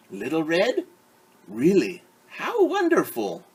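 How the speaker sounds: lightly voiced grandmother, pleased; a delighted granny; old grandmother. Grandmother happy her granddaughter has come.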